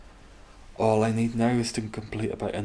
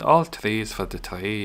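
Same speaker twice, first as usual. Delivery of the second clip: put-on Irish accent; 5 dB louder than usual. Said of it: "can do me Irish accent".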